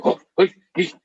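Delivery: a half-hearted martial-arts yell; Bruce Lee shout. Retold or imitated. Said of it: "he would do that Bruce Lee".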